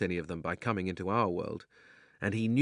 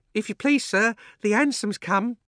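put-on high, breathless young maid; excited housemaid; 13 semitones higher, 7 dB louder than usual. A narrator's reading. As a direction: announce it like an eager maid. Housemaid announces cab.

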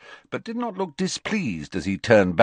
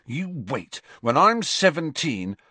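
yawning; 10 semitones higher, 4 dB louder than usual. Acted. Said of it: "yawned Fred".

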